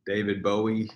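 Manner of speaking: the surname rhyming with snowy; said as BOH-ee. Shown as a demonstration. Giving his preferred pronunciation of the surname, as BOH-ee. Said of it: the speaker prefers that pronunciation.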